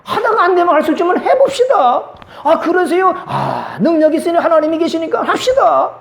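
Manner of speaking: high, bright-eyed can-do voice with laughs; eager optimist, laughing along; upbeat positive person. Acted. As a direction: cheer them on, everything is possible. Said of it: "긍정적인 사람을 만나보세요".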